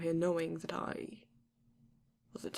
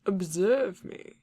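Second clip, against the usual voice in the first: incredulous; 9 dB louder, slower than usual. Acted. Vampire mocks intruder's excuse.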